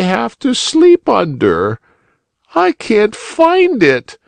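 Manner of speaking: put-on very high, small weepy child; a lost child near tears; tearful little boy. A narrator's reading. Little Boy Blue explains.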